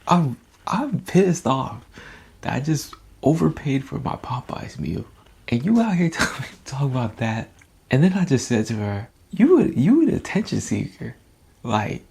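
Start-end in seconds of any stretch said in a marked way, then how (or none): 0.1-7.5 higher, louder mock annoyed rant; retold rude reply. To his girlfriend about the Popeyes meal, higher mock annoyed rant. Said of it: "I said it very rudely". 9.3-11.2 higher and louder rude jab; rude retort. Retold or imitated. Telling his girlfriend she seeks attention, higher rude jab. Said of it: "I said it very rudely".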